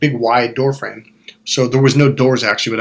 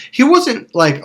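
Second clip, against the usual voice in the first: usual speaking voice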